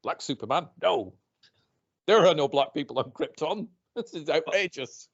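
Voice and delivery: mock outraged bigot. Mocking angry fans to his co-host, hammed-up outrage. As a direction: send up a spluttering online grump. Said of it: "dickheads who are like".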